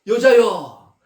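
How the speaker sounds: loud, slow, high declaration; proclaiming praise. Acted. Jesus praising the woman's faith, loud and slow. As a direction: ring it out like a blessing.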